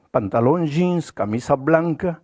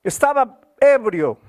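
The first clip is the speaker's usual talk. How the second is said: put-on raised, impassioned voice of the broken drunk confessing; pleading confession; 4 semitones higher than usual. Pastor voicing the repentant drunk telling his story, raised and pleading. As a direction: pour out his ruined life as the man himself.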